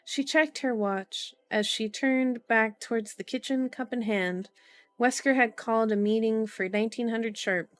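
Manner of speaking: measured audiobook-style reading; story narration. A narrator's reading. Streamer reading a novel to viewers, story narration. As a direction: read the story out evenly and clearly.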